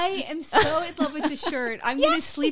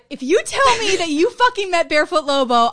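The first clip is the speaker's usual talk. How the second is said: loud, emphatic mock outrage; mock threat; 2 semitones higher, 5 dB louder than usual. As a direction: threaten a friend in jealous jest, slowing at the end. Mock-threatens friend out of envy.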